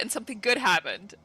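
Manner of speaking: ordinary talk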